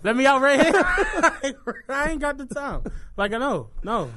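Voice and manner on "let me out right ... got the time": loud, higher panicked plea; mock panic. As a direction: yelp it to the driver. Imitating panicked passenger.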